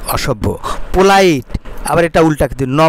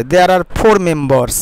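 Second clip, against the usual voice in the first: very slow, careful English reading; slow model reading; much slower than usual. Shown as a demonstration. Teacher reading the sentence slowly to students. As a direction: read it word by word for the class. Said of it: "slow model reading of English".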